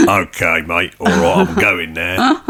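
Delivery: put-on a light, half-done Australian accent; slow, lightly voiced Aussie bloke signing off. Sacked sound engineer leaving, in a light Australian accent. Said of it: "Don't know why he's Australian".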